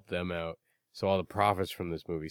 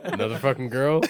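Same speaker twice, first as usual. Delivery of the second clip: teasing laugh; 4 semitones higher, 5 dB louder than usual. Real, not acted. Teasing friend about text.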